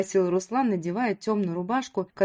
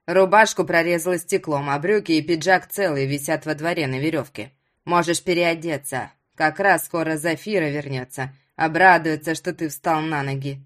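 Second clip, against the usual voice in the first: put-on old villager in a lower voice; lowered voice of a plain-spoken old host; lightly voiced old fisherman; 4 semitones lower, 4 dB louder than usual. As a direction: lightly play a matter-of-fact old man.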